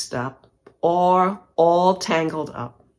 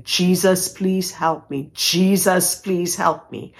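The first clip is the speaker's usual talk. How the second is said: retold plea, raised a little; louder prayer; slower than usual. Stranded traveler calls on Jesus in the line, mildly raised plea. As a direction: pray aloud so others can hear. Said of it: "I'm saying it loud enough".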